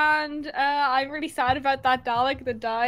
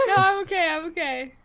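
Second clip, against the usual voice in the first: crying on the phone; 4 semitones higher, 5 dB louder than usual. Real, not acted. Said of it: "are you crying?".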